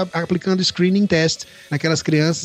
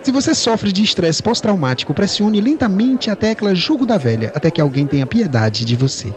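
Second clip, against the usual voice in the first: customer service voice. Retold or imitated. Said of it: "atende a secretária eletrônica dizendo".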